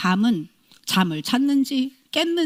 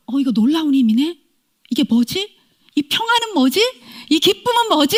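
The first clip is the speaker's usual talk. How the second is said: amazed wonder; 4 semitones higher, 3 dB louder than usual. Retold or imitated. Wonder at sudden joy.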